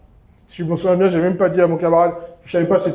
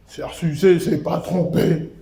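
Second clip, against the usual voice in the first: quoting a rapper; slower than usual. Retold or imitated. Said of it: "Il arrive et dit".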